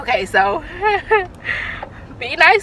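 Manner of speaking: high, slow, tearful words between sobs; tearful plea. Real, not acted. Finishing the message to mom while crying. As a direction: push through the tears.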